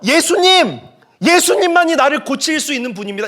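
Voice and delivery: high, loud call for help; frantic outcry. Acted. Blind men making a commotion to reach Jesus, frantic outcry. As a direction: shout to Jesus over the crowd. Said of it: "막 난리를 치면서".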